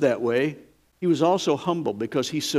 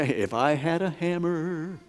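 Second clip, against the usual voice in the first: quoting John the Baptizer; 3 semitones lower than usual. Retold or imitated. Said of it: "His words were like".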